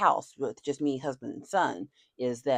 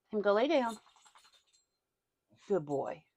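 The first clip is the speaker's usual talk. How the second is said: higher cooing order to the dog; 5 semitones higher than usual. Real, not acted. Owner coaxing dog to bed, higher baby talk. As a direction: coax the dog to lie down.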